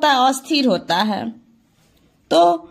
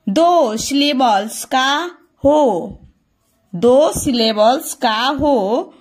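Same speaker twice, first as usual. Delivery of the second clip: slow, deliberate dictation pace; slow rule read-out; slower than usual. Real, not acted. Teacher reading a grammar rule to students, slow and measured. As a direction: read it out slowly, word by word.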